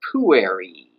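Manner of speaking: "Pueri" accented early, then dropping low and held; low, drawn-out "Pueri"; Pueri staying low. Shown as a demonstration. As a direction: let the end of "Pueri" sit low. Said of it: "the pitch of my voice is staying low".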